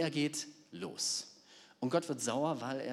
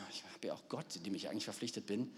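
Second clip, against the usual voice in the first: whispered doubt; 3 semitones lower, 8 dB quieter, faster than usual. Retold or imitated. Balaam's inner doubt whispered.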